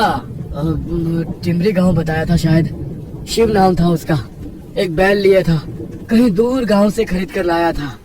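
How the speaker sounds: lightly voiced Naval, unsure; hesitant villager. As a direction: recall details tentatively.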